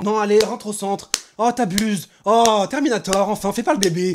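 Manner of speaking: high, reproachful pleading; exasperated coaxing. Acted. Animator urging the kid back, exasperated.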